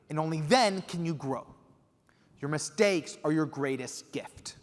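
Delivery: slow, deliberate words of wisdom; old master teaching a student; sage mentor advice. Retold or imitated. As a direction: hand down a hard-won lesson. Quincy delivers his wisdom.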